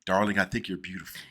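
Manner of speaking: put-on low, suave Mid-Atlantic accent. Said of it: "the North Atlantic accent".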